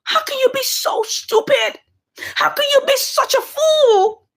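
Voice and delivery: high, mocking disbelief; mocking scorn. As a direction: sneer at his foolishness. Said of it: "she starts to laugh".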